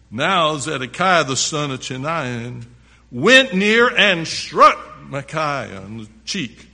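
emphatic, projected Bible reading; preacher reading scripture to the congregation. A narrator's reading. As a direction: read it out loud, punching key words. Reads scripture aloud, forcefully.

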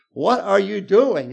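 high, loud, slow incredulous demand; hammed-up outrage at the congregation; upset Paul. Preacher voicing Paul scolding the Corinthians, mock upset. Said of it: "like, so upset".

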